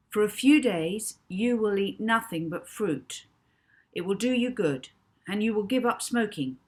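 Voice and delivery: put-on a boy hypnotist laying down the rules; commanding voice. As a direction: give orders like a hypnotist. Rocky commanding hypnotised Notman.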